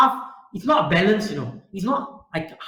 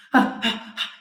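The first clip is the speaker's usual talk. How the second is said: exasperated, breathy huffs; angry huffing; 4 semitones higher than usual. Retold or imitated. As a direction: huff like someone losing his temper. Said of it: "He got so angry and he said".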